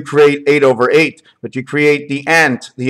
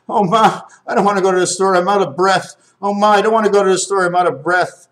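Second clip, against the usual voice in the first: lightly voiced kid complaining to mom, higher pitch; hint of a reluctant child pleading, pitched up; whiny kid; 5 semitones higher, faster than usual. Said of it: "When he was, like, ten, twelve, fifteen years old".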